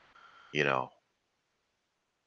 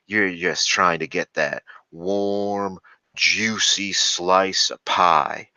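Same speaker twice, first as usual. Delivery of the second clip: slow, drawn-out mock alpha bro; imitating southern alpha; 2 semitones higher, 3 dB louder, much slower than usual. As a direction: stretch it out like a cocky southern guy. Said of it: "a southern twang to his voice".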